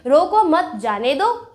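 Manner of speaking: group it "रोको मत / जाने दो"; pause after मत. Shown as a demonstration. Teacher quotes Mohan's sentence, pausing after मत. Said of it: "रोको मत" के बाद रुकेंगे".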